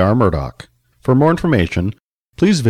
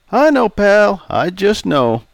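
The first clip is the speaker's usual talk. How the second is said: put-on raised, jovial old customer; 11 semitones higher, 4 dB louder, slower than usual. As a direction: play Charlie, teasing.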